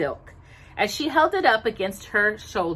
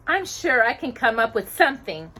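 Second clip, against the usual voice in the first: joyfully; 5 semitones higher, 4 dB louder than usual. Acted. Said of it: "Cinderella said joyfully".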